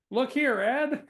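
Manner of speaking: put-on brisk old black and white movie guy; fast-talking 1930s film voice. Shown as a demonstration. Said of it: "nineteen thirties movie guy voice".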